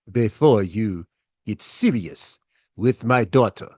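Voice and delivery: a hint of a stern African father; measured, stern African accent questioning the boyfriend; father grilling daughter's boyfriend, lightly imitated African accent. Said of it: "my best version of talking like her father".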